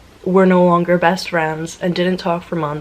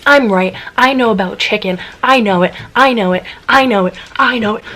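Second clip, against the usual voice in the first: retold yelling; 3 semitones higher, 4 dB louder, faster than usual. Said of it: "I'm like".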